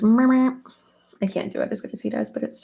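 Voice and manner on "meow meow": put-on playful meows a bit higher and louder, like a grandpa to a baby; imitating baby-talk meows. Telling the viewers how Tony's dad coos at babies, playful meows. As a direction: copy his cute cat noises for the baby. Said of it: "He goes".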